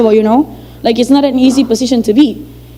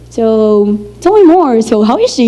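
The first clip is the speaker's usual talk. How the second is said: villain-like probing. Retold or imitated. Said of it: "that face that villains made on movies".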